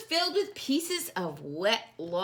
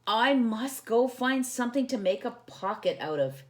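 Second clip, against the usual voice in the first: Corduroy's voice; 4 semitones higher than usual. Acted. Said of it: "he said".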